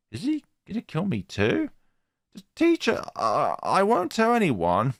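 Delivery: high, rising panic; high, frantic girl; panicked schoolgirl. Acted. Frightened schoolgirl.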